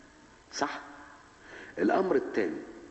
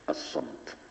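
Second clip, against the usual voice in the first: hushed emphasis; 11 semitones lower, 6 dB quieter, slower than usual. Real, not acted. Naming the cure for the tongue.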